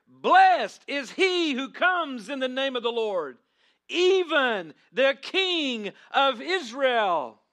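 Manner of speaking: loud, high and slow proclamation; shouting praise. Shown as a demonstration. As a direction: proclaim the King of Israel at full voice. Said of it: "You're shouting".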